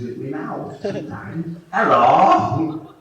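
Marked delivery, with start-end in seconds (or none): 1.7-3.0 strange, odd hello; a lightly weird greeting. Retold or imitated. Nutcase voice at the bus station, lightly strange. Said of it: "This voice goes".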